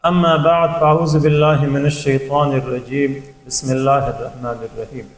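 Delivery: slow, measured Arabic recitation; Arabic opening invocation. Acted. Lecturer opening a lesson with praise of God, measured recitation.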